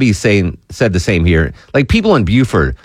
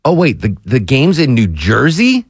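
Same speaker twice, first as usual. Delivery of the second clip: mock surprise; 4 semitones higher than usual. Host as French fan realising the match is in New Jersey, mock shocked. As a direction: play the confused fan discovering New Jersey. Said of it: "you're like".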